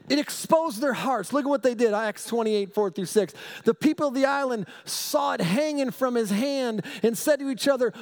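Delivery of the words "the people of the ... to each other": raised, fervent Bible reading; scripture reading. Acted. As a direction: read the verse like good news to the flock. Reads scripture with fervour.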